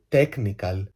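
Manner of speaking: put-on TECHNICAL in a slow, heavy Greek accent; mock Greek accent. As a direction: drag out "technical" with Greek vowels. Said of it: "το λέτε με αυτή τη σπαστική προφορά".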